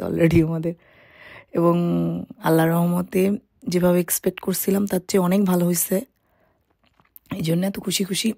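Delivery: slightly hoarse, worn throat. Real, not acted. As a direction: talk through a hoarse throat. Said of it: "আমার গলাটা একটু বসে গেছে".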